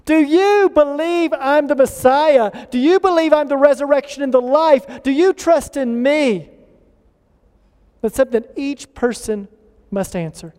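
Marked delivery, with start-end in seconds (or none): 0.0-6.5 lightly voiced Jesus, pleading question; Jesus asking. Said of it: "Jesus looks and says".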